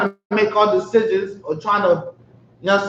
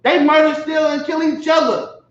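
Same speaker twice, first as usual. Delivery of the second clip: fervent shout; 6 semitones higher than usual. Real, not acted. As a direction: cry it out to the crowd in condemnation. Preacher denouncing the oppressor.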